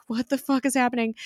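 fast, high-pitched mock bewilderment; mock frustration. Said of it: "she looks very frustrated".

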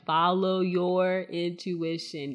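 "your" drawn out long and loud; slow line with a big, stretched "your"; stress on YOUR. Shown as a demonstration. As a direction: lean hard and slow on "your". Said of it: "Emphasis on the your".

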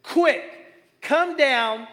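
Jesus calls up to Zacchaeus; calling out. Retold or imitated. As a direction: call him down from the branch. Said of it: "he said".

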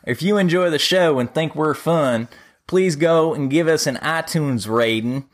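a light Southern drawl, half laughing; lightly put-on Southern accent, slowed on the ask. Host asks Rodney for the listeners, light Southern drawl. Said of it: "in your best Southern drawl accent".

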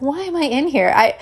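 mock-hysterical self-questioning with a laugh; hysterical thought. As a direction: ask yourself in exasperated, hammed-up panic. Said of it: "I have this hysterical thought".

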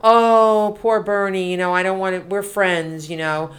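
a lightly voiced sugary innocent act; mock Pollyanna. Host mocking Warren's debate-stage innocence, mild sugary act. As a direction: fake sweetness, barely put on. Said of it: "she tried to act all Pollyanna".

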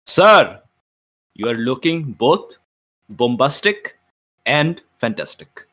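grand, flattering welcome, drawn out; in-character greeting. Acted. Player greets the well-dressed guest at the door, mock-grand. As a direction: greet him with a flourish, slowly. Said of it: "and I say".

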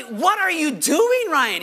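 exasperated acted reprimand; mock rebuke. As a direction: draw out the question in disbelief. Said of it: "yes, in a rebuke".

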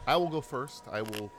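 segment host read. Acted. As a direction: present the rules like a game show. Hosts the segment intro over music.

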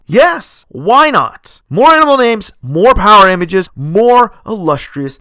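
a burst of high, loud enthusiasm; excited. Real, not acted. Podcast host to his listeners, loudly and excitedly saying yes. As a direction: cheer it like the answer is obvious.

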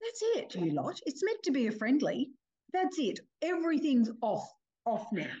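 pitched high, half-joking scold; mock telling-off. Mum stopping a rough family soccer game, mock scolding. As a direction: call the game off like a cross mum. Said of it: "and I just went".

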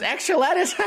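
high-pitched mocking imitation of a woman; mock sandwich lady. Sandwich lady echoing lettuce boy, high mock voice. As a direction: squeal it back as a delighted question. Sandwich lady's giggly reply to kid.

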